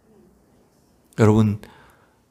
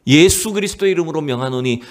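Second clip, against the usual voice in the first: mildly raised, proclaiming command; retold cry; 3 semitones higher than usual. Monk commanding a roaring arena to stop, retold cry. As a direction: lightly imitate a monk crying out an order. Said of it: "막 소리를 치기 시작하는 겁니다".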